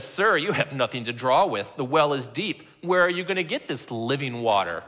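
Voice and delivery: understated harsh sarcasm; mildly sarcastic, touchy. Acted. Woman at the well doubts Jesus, mildly sarcastic and touchy. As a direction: challenge him with a touch of scorn. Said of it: "I hear as sarcastic and, and, and very touchy, very, very harsh".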